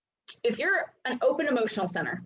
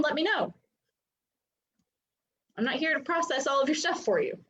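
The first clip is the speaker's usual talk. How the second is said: a little bitchy; 3 semitones higher than usual. Retold or imitated. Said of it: "I sound a little bitchy".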